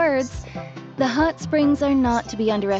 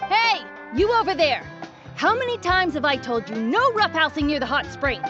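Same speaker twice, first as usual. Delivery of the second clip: scolding; 3 semitones higher than usual. Acted. Guard to kids roughhousing near hot spring, scolding. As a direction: call out a sharp telling-off.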